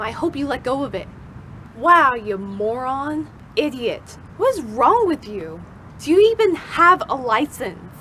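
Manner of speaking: mock-indignant scolding; exasperated pretend telling-off; acted road rage. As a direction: rant half in earnest at a driver who cut in. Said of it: "what would I say?".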